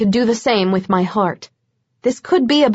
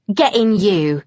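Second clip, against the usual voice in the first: offhand. A narrator's reading. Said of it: "like a pair of shoes he'd misplaced".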